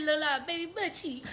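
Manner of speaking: giggly playful boast; laughing boast. Retold or imitated. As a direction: brag about your skin while laughing. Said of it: "I'm like".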